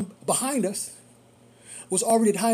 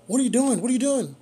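higher, urgent questioning; raised-pitch startled demand; retold alarm; 4 semitones higher, 3 dB louder than usual. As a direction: reenact an alarmed driver challenging a passenger. Retold alarm at passenger's door fumbling.

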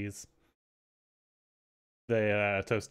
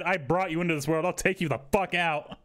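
threatening grandma; 5 semitones higher than usual. Retold or imitated. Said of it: "she actually said".

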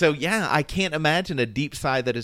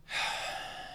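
long, heavy breathy exhale; deep sigh; 12 dB quieter than usual. Shown as a demonstration. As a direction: let the air out in one weary sigh. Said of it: "is there any way to do a deep sigh".

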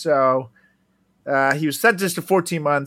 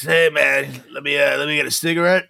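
imitating the guy; 2 semitones higher than usual. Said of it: "he talks like, like this".

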